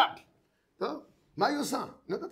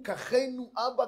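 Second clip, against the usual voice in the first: pleading; 3 semitones higher, much slower than usual. Acted. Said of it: "פשטו ידיהם ואמרו".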